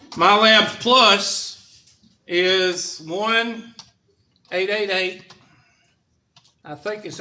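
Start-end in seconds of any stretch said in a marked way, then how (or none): 0.1-5.3 slow dictation. Shown as a demonstration. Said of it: "dictating for note-taking".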